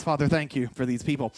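quick, low murmured prayer; mock prayer aside. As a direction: toss off a soft little prayer under the breath. Joking aside prayer about raised hands.

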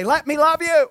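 high, loud lovesick call; mock pleading shout. Husband runs after his wife, loud high sappy plea. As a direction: call out as if chasing someone for affection. Playfully chasing wife for affection.

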